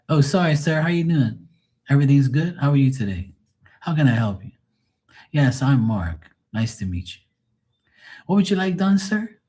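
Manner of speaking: polite customer-service manner; proper client voice. Acted. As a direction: switch to courteous, proper English for a client. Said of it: "I have to talk like, you know, proper".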